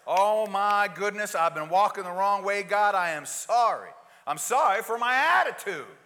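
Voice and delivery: loud, pleading confession to God; earnest repentant prayer. Retold or imitated. Believer cries out to God in repentance, loud and pleading. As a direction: plead for change, heart broken open.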